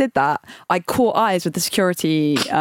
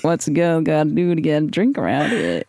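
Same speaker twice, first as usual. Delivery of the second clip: flirty bar line; 2 semitones lower than usual. Pretend.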